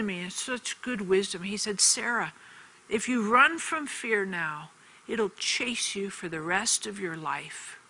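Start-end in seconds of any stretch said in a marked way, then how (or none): 1.8-7.8 a hint of a calm father, slow and measured; gentle fatherly advice. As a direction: lightly voice dad's wise words, unhurried. Father's wise advice retold.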